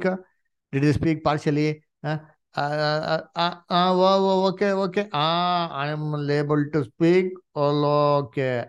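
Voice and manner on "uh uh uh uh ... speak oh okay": mock halting speech. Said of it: "They did not speak like that".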